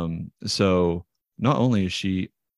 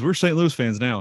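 raised-pitch, eager declaration; excited dad; 5 semitones higher than usual. Retold or imitated. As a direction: declare it like a newly converted fan. Dad declares new team loyalty.

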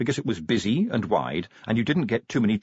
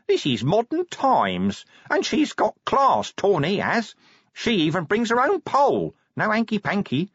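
a little hurt; 12 semitones higher, 3 dB louder than usual. A narrator's reading. Corporal defending his girlfriend, a little hurt. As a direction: stick up for her, slightly wounded. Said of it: "Nobby sounded a little hurt".

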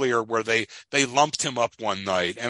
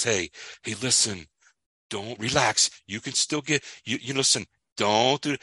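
calming. Retold or imitated. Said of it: "And he says".

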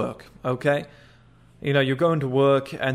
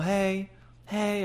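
high, softer hey; unassertive mock greeting; 6 semitones higher, 5 dB quieter than usual. Shown as a demonstration. Guys saying hey to women, high and unassertive. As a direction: mimic guys' weak, high-pitched hello. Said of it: "I hate when guys do that".

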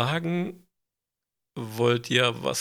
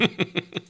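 manic burst of laughter; hysterical laugh; 6 semitones higher than usual. Real, not acted. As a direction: cackle like a madman. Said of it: "Irres Lachen".

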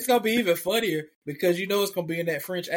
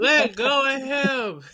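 drawn-out, louder let go of him; slow mock command; 4 semitones higher, 3 dB louder, much slower than usual. Friends voicing teammate pulling the fighter off, slow command. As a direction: stretch out the order to let go.

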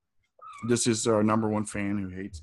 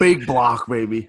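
hype cheer; 5 dB louder, slower than usual. Real, not acted. Friend cheering the new gun purchase, hyped. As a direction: cheer it on like a buddy.

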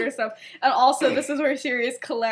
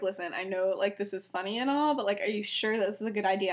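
softer, lower retold worry; a gentle private check-in, lightly acted; quiet concern; 4 semitones lower, 6 dB quieter than usual. Effie pulls him aside, quietly concerned.

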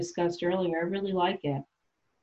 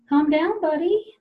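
mocking condescension; 10 semitones higher, slower than usual. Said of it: "I like to feminize them and be like".

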